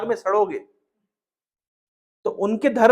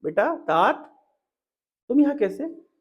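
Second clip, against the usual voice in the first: slow, then higher surprised question; changed tone; 4 semitones higher than usual. Acted. Diti asks Indra tenderly, surprised he is there. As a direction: draw out the fond address, then wonder. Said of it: "अभी दीति की भाषा बदल गई".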